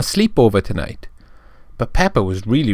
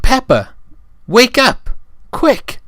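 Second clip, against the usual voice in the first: high, loud urgent shout; urgent wake-up call; 13 semitones higher, 4 dB louder, slower than usual. Acted. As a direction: rouse her, panicked. Firemen rousing Peppa from burning house.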